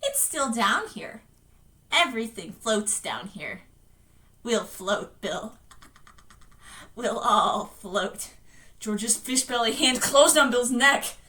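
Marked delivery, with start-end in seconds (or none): 0.0-8.3 slow, drawn-out eerie lure; eerie ghost child. Acted. Dead George luring his brother down, slow and eerie. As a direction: lure him slowly, dragging out the words.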